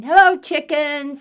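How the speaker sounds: high, loud duck voice; cheery duck greeting. Acted. Duck greets chicken while riding past, high duck call.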